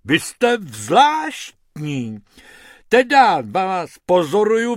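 lightly voiced hippo showman, rising high; hippo Hubert, enthusiastic. Hippo offering rabbits a TV advert, enthusiastic. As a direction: size them up, then pitch eagerly.

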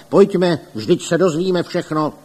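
rally the others to follow; exclaiming. A narrator's reading. Councillor urging the crowd to go inside, loud call. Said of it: "pan Rada Kdojek zvolal".

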